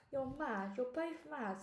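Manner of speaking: a hint of a fretting boy; anxious boy. A narrator's reading. Alexander frets at the two daredevils. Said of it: "said Alexander".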